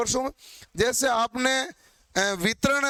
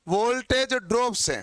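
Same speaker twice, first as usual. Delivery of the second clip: वोल्टेज ड्रॉप से said slowly, each word drawn out for dictation; slow repeat. Shown as a demonstration. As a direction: repeat it slowly so the class can write it down. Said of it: "देखिएगा ध्यान से". (धीरे-धीरे, साफ़ दोहराते हुए)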